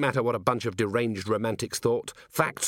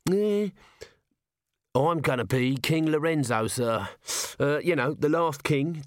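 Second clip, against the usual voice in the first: higher, hesitant, nervous little corporal; raised wheedling voice, full of ums; Nobby; 5 semitones higher than usual. A narrator's reading. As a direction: stammer it out like a nervous underling. Nobby confesses playing the king.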